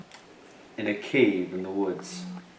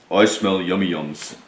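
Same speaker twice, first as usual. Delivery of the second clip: a hint of a grinning badger, a bit louder; lightly voiced badger; 5 dB louder than usual. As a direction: sniff out the treats with a friendly grin. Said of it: "Badger says with a grin".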